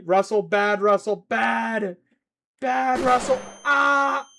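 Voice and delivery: loud, high-pitched telling-off; sharp exasperated yelling; scolding shout. Real, not acted. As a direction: yell it like scolding a naughty pet. Scolding Russell mid-stream.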